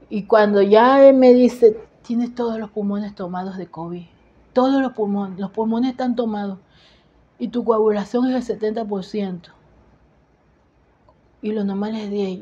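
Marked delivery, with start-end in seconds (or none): 2.0-12.4 soft, subdued retold bad news; tearful husband. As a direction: break grave news quietly, as an upset husband. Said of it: "veo a mi esposo llorando".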